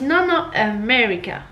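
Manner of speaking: "America" corrected to start on a weak "euh"; teacher's correction. Retold or imitated. Vlogger mimics teacher correcting pupil, America with a schwa. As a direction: imitate a teacher correcting to "euh-MER-ica". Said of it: "le prof il dit".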